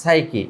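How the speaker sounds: সাইকি said as "saiki" with no p; teacher's model সাইকি, no p sound; silent p. Shown as a demonstration. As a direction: begin সাইকি on a clean s. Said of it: "এখানে পি এর উচ্চারণ হবে না".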